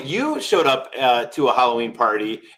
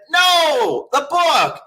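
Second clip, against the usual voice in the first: mock exasperated friend; 4 dB louder, much slower than usual. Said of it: "And you said".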